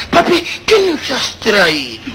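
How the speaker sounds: slow, lightly voiced little kid; child's question. Child asking father what he brought, lightly put-on kid voice. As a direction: ask slowly like a hopeful small child. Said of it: "la clásica pregunta del niño".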